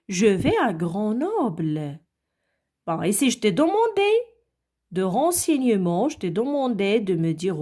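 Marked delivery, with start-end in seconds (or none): 0.1-2.0 slow, careful answer sentence; slow model reading. Shown as a demonstration. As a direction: read it slowly as a reply. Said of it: "tu m'as répondu".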